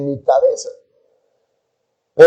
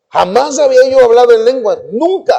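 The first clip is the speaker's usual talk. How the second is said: higher pitch, with "nunca" leaping highest; emphatic denial; 7 semitones higher than usual. Real, not acted. Testifier insisting tongues were new to him, emphatic.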